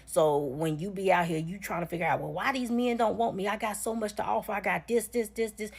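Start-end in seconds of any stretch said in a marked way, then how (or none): 2.2-5.7 higher-pitched mimicry of a puzzled woman; mock plaintive boasting, pitched up; mocking complaint. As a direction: imitate her listing her assets in bewilderment. Mimicking women puzzled by rejection.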